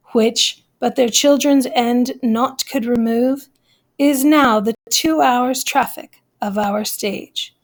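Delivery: measured Shakespeare recitation with a pause at each line break; poem reading. Acted. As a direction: read the sonnet aloud to the class, line by line. Reads the prologue aloud.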